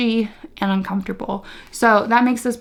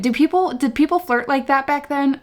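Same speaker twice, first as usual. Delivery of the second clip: incredulous; 5 semitones higher than usual. Real, not acted. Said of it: "disbelieving question about flirting".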